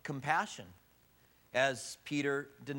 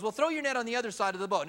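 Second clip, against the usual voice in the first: calling out; 6 semitones higher, faster than usual. Acted. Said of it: "a guy from the shore yells out".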